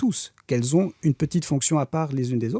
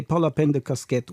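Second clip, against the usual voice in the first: put-on Portuguese accent. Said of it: "l'accent portugais".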